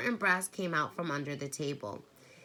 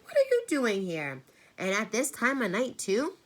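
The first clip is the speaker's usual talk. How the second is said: higher, louder demanding questions; small boy confronting a late visitor; challenging; 7 semitones higher, 7 dB louder than usual. A narrator's reading. Charles challenging the stranger.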